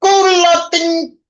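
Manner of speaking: mock Spanish cursing. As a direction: play an angry man cursing someone out in Spanish. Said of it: "Hispanic people like, um, cursing each other out?".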